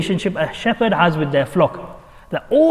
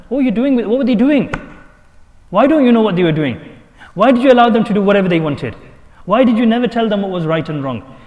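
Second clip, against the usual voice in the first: raised, louder interrogation; questioning voice; 4 semitones higher, 4 dB louder than usual. Pretend. Asking a father about his children, stern and louder. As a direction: demand answers like a judge.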